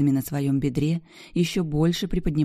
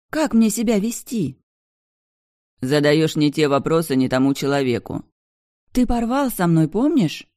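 upset Bianca; 4 dB louder than usual. A narrator's reading. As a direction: press him with wounded indignation. Bianca voiced higher. (обиженный высокий женский голос)

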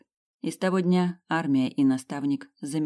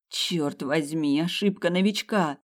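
mocking; 3 semitones higher, slower than usual. Schaefer mocks her mistake.

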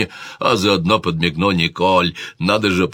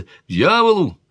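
king shouting; 10 semitones higher than usual. A narrator's reading. King shouting at his sister about the hunt. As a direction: fling it out at full volume. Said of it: "закричал король".

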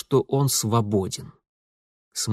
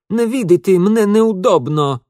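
strained shout; 8 semitones higher, 7 dB louder than usual. A narrator's reading. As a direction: yell it out of breath while stuck. Ingvar straining, shouting at Mitya.

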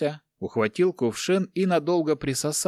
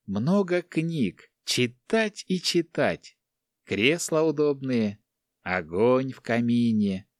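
a dreamer describing a cosy library, slowly; dreamy; slower than usual. Acted. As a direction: linger on each word like a sweet memory. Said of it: "мечтательно прищурил глаза".

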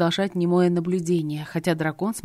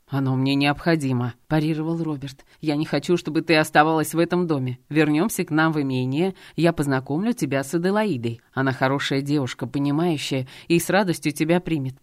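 stern dragon husband; 2 semitones lower than usual. Acted. Dragon husband Robert speaks.

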